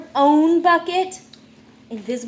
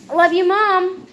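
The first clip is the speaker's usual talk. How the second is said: cheerful note; 7 semitones higher, 7 dB louder than usual. Acted. Read from mom's note.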